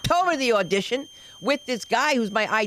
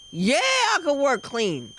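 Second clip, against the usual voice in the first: eager agreement; 3 semitones higher, slower than usual. Acted. Comic agreeing once she gets paid, eager drawn-out yes. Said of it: "you'll be like".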